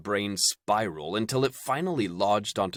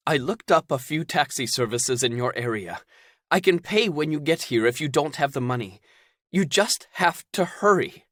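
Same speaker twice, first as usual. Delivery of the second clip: higher, louder worried woman; anxious Zelda; 7 semitones higher, 4 dB louder than usual. Acted. Zelda on the phone hesitating to tell Caden bad news. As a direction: break bad news haltingly.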